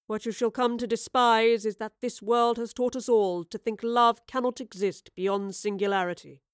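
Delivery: a hint of a wounded old man confessing; older Oscar, heartfelt. Older Oscar to his younger self, earnest confession.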